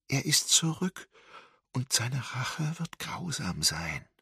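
high tinny answering-machine voice; a dead woman's message from the tape; metallic tinny. A narrator's reading. Dead woman's voice on the answering machine, metallic and tinny. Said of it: "Metallisch scheppernd".

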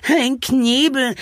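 slow, high, drawn-out wail. A narrator's reading. Charlie dreads being gagged, wailing slowly. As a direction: wail it out in dismay. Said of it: "jammerte Charlie".

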